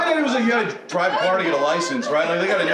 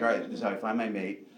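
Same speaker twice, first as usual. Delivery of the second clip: put-on hopeful kid; 6 semitones lower, 8 dB quieter, faster than usual. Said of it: "And I was like".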